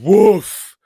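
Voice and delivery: loud, high reaction; sudden loud high exclamation; woof. Real, not acted. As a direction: let out a big impressed woof. Reacting to the shocking scene.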